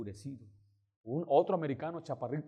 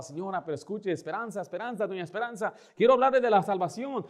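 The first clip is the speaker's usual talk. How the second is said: high appeal building louder and faster; insistent pleading; 6 semitones higher, 5 dB louder than usual. Retold or imitated. Pastor trying to make Esperanza listen, rising insistent plea. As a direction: keep pleading to get a word in. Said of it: "Yo trataba".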